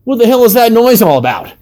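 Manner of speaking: very high-pitched nerd voice; Air Force nerd. A narrator's reading. Nerd in next room hearing the grunts, high-pitched complaint. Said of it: "this was definitely an Air Force nerd".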